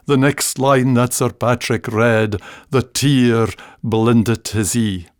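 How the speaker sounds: slow recited ballad verse, sinking toward the end; ballad recitation. Shown as a demonstration. Reciting the ballad's sad next line. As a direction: let the verse fall sadly. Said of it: "in an old Scots ballad".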